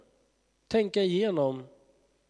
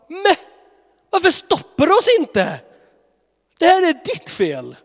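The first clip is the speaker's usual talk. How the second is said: much higher and louder whiny blame; whining complaint; 11 dB louder than usual. Pretend. Upset people blaming God, much higher and louder whining. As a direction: whine and blame like a spoiled child.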